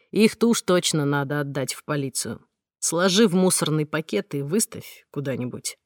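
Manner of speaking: a hint of a steady man soothing her; reassuring man. Mark calms the frightened heroine, reassuring male voice.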